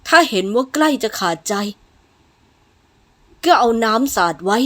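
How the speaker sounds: loud, cold instructions; hard, uncaring order; callous master. Acted. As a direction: dismiss the patient's suffering.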